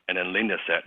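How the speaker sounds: ordinary delivery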